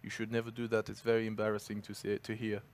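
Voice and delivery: put-on quiet, low, lightly French-accented quote; imitated French accent. Retelling a Frenchman's advice on practicing French, lightly imitated French accent. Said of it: "Has he got a French accent?".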